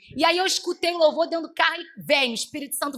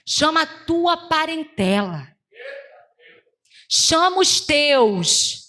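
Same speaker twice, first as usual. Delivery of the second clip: slow, drawn-out proclamation; commanding preacher in God's voice; forceful prophetic preaching; slower than usual. Retold or imitated. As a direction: declare God's promise with every word stretched. Preaches as God speaking.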